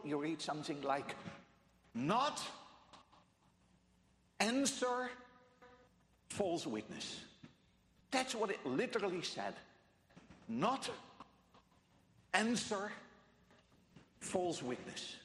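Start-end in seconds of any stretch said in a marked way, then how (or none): 1.9-7.2 "Not" alone up front, then a pause; stress on NOT. Shown as a demonstration. Preacher reading the literal Hebrew order, "Not" emphasized. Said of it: "All emphasis is on". 10.5-15.2 "Not" fronted and set apart by pauses; stress on NOT. Shown as a demonstration. Preacher showing where Hebrew puts emphasis, "Not" stressed. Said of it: "All emphasis is on "not".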